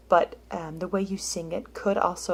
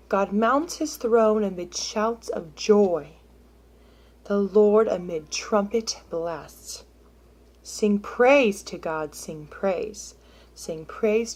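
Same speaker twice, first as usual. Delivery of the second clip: slow, louder reading that leans on joy, trumpet, praise and sing; emphasis on highlighted words; 5 dB louder, slower than usual. Shown as a demonstration. Teacher demonstrating a reread with emphasis on key words, slow and louder. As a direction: lift the highlighted words to bring the verse alive. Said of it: "So I highlighted a few words".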